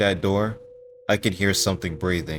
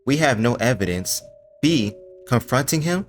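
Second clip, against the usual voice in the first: exasperated; 5 semitones higher than usual. Acted. Exasperated rant at Foxy.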